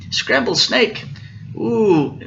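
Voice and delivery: high, startled snake question; alarmed echo. Acted. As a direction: echo it in storybook dismay.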